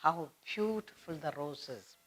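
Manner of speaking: soft admiring tone. Shown as a demonstration. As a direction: savour "How beautiful the roses" softly. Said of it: "You're admiring the rose".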